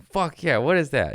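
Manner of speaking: light up over the knife; excited. Retold or imitated. Comedian thrilled at a fan's knife, excited shout. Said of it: "I'm like".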